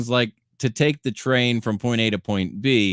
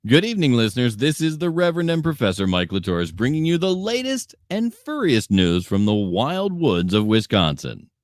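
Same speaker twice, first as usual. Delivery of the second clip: playful newscaster intro; news anchor read. Acted.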